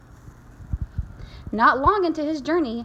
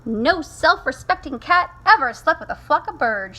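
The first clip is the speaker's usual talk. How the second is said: louder, higher motherly scold; 4 semitones higher, 5 dB louder than usual. Acted. Mother scolding her kitten for acting like birds, scolding. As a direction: lecture a naughty child, hitting the key words. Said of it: "she scolded".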